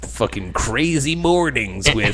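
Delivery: slow, hammed-up morning radio host. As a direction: announce it like a nineties DJ. Parody morning radio show intro.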